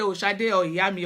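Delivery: light, loving call of her name; mother calling her fondly, lightly imitated; affectionate call. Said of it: "It's different from when she say".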